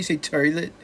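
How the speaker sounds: high-pitched Queens accent on "toilet". Shown as a demonstration. Explaining regional accents to chat, a high Queens accent. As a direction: say "toilet" like a Queens guy, toy-let. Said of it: "If you're from Queens, you're like Archie Bunkie".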